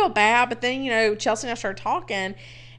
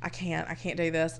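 much softer, low despairing mutter; desperate inner voice; 4 semitones lower, 11 dB quieter than usual. Retold or imitated. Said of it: "And I'm like".

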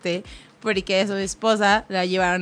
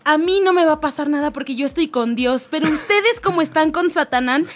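raised pitch, building to a curse; mock outraged rant; 5 semitones higher than usual. Retelling the wife's threat to those who robbed her, mock rant. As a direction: imitate an indignant wife cursing the thieves.

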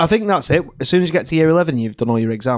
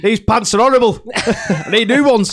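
mock whiny teen; 9 semitones higher, 8 dB louder than usual. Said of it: "it was like".

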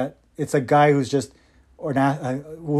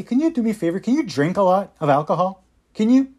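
sarcastic pleading, pitched up at the end; mock the agency asking nicely; sarcastic mock request from the agency; sarcastic mock plea; 4 semitones higher than usual.

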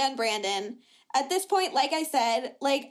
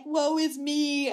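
slow, drawn-out woe-is-me; mock self-pity; slower than usual. Making fun of how Julia always is, slow mock self-pity. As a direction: imitate a self-pitying whiner, stretching it. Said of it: "making fun of how Julia is always like".

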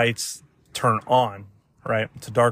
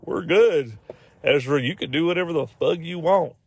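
lightly put-on Southern accent, higher pitch; 5 semitones higher than usual. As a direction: slip into a mock Southern accent. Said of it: "he went Southern at the end".

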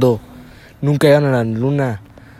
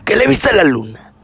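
Adela Micha; 7 semitones higher, 5 dB louder than usual. Acted. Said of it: "y tú eres Adela Micha".

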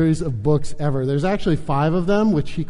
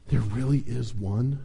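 soft, lowered voice of wonder; breathed in awe; 4 semitones lower, 7 dB quieter than usual. A narrator's reading. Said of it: "breathed Fuge".

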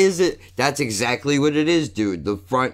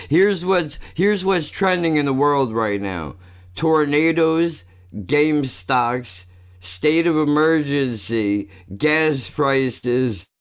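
raised pitch, each item punched; emphatic list read-out; 4 semitones higher, slower than usual. Real, not acted. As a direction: read the trending list out like alarming headlines. Reads out alarming trending list.

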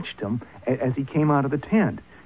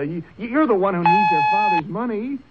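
agitated confession; 4 semitones higher than usual. Acted. Son blurting his confession at his father, agitated. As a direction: blurt it out and lash back.

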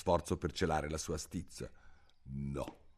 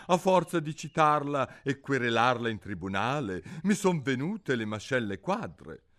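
lightly voiced father, higher and louder; old father; 10 semitones higher, 4 dB louder than usual. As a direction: grumble about married life. (papà brontolone)

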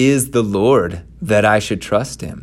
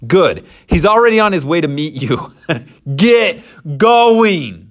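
brisk send-off; 8 semitones higher, 4 dB louder than usual. Acted. God sends Moses off.

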